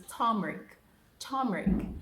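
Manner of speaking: turmeric as "TAHM-rik", stress on first syllable; teacher's turmeric demo; correct turmeric. Shown as a demonstration. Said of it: "The right pronunciation is turmeric".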